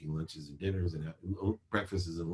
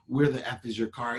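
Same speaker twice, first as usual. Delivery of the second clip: sharp, higher demanding voice; angry father; 5 semitones higher than usual. Retold or imitated. Angry dad demanding where the car is, snapping. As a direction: bark the question like an angry dad. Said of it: "ego-based consciousness".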